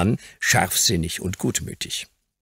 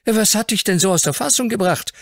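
higher, puzzled question; curious young lawyer. Acted. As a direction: ask what shook the boy.

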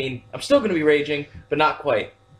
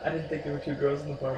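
man doing a woman's voice; 6 dB quieter than usual. Pretend. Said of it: "do you like my girl voice".

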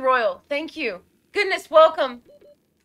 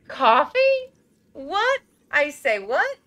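gasp, then question it incredulously; excited surprise; 2 semitones higher, 7 dB louder, slower than usual. Real, not acted. Streamer finding coffee in the game, excited surprise.

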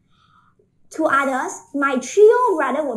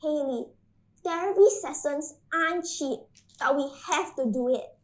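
soft, subdued motherly voice; hushed and serious, lightly acted; gently explaining mother; 6 dB quieter than usual. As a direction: explain it quietly, like a worried parent to a child. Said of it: "my mother explained to me".

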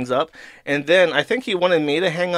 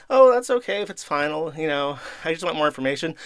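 higher sing-song fake politeness; chirpy mock patience; fake cheerful; 3 semitones higher than usual. Pestering the rep for account services in fake cheer. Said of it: "It's like".

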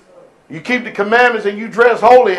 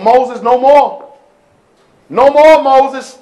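pleading cry, rising louder; begging Israelites; 3 semitones higher, 4 dB louder, much slower than usual. Retold or imitated. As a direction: plead with Moses to stop. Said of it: "begging him".

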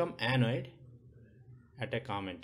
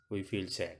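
mock sad; 7 semitones lower, 7 dB quieter than usual. Shown as a demonstration. Teacher showing children what sad sounds like, mock sad. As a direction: lower and softer, a little droop.

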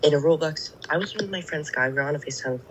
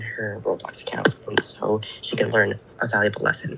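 whisper; 4 semitones lower than usual. Real, not acted. Signing off the scam warning.

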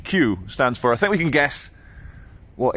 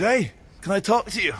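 higher, friendly stranger's request; cyclist asking; 9 semitones higher than usual. Retold or imitated. Cyclist stops the vlogger, asking in a higher voice. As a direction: ask it up high like an eager stranger. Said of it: "And then he goes".

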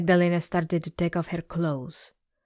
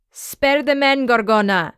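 high, loud plea; pleading shout; 5 semitones higher, 4 dB louder than usual. Acted. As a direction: call out to the monster to spare them. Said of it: "she shouted".

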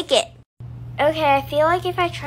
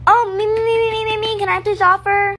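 eager bidding; 6 semitones higher, 3 dB louder than usual. Acted.

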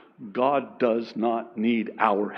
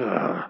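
weary parent's inward groan, pitched down; acted "ugh" of reluctance; low reluctant groan; 4 semitones lower than usual. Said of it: "You're thinking".

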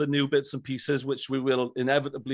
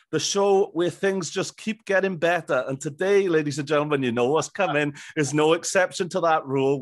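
show host intro. Acted. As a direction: roll it out like a radio host hyping the guests. Host opens show, introduces guests.

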